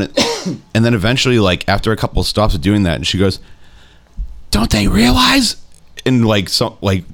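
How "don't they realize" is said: high, slow, strained mock lady voice; imitating distraught bus lady. Retelling a bus passenger's outburst to friends, high slow mock voice. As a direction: stretch it out way up high like a rattled stranger.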